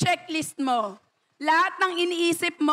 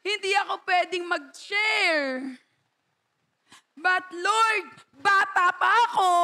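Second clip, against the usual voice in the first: pleading excuse; 3 semitones higher than usual. Retold or imitated.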